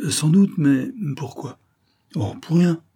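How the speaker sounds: Flavie's voice. A narrator's reading. Flavie answers, evasive and anxious.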